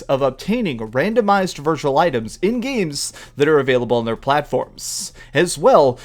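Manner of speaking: lightly put-on corporate announcer; a hint of formal spokesman delivery; business guy voice. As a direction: read it like an official business statement, slightly projected. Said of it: "my best business guy voice".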